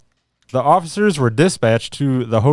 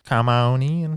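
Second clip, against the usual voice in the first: friendly host voice; slower than usual. Acted. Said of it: "He probably said it like that".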